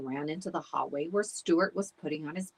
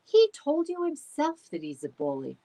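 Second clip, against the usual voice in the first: higher, louder insisting; insistent; 10 semitones higher, 6 dB louder than usual. A narrator's reading. Stuart insisting to the dogs that Bax is a bully. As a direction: press the point hard.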